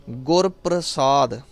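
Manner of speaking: ਗੁਰ ਪ੍ਰਸਾਦ with a clean s in ਪ੍ਰਸਾਦ; careful correct pronunciation. Shown as a demonstration. Teacher modelling recitation for students, careful pronunciation. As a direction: sound out ਪ੍ਰਸਾਦ with s, never sh. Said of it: "ਸੋ ਉਚਾਰਨ ਕਰਨਾ ਹੈ ਗੁਰ".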